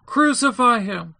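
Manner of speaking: high, slow shout from a crowd; insistent shout. A narrator's reading. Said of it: "they kept shouting all the more, saying".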